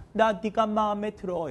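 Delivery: high, slow, level sing-song; acted confession. Teacher showing girls how to approach a boy, drawn-out confession. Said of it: "이렇게 먼저 말을 하세요".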